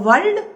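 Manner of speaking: "world" hit high and loud; stressed world. Shown as a demonstration. Teacher marking the stressed syllable for students, loud "world". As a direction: punch "world" as the stressed beat.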